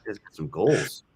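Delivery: low whispered quip under the breath; whispered aside. Real, not acted. Snarky aside about the passenger.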